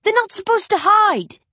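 high, loud petulant shout. Acted. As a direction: yell it like a sulky kid who lost. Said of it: "Essex shouts".

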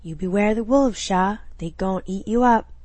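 lightly voiced old Cajun woman; a hint of an ominous elder's warning; Mama Jolie. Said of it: "Mama Jolie's words haunting her".

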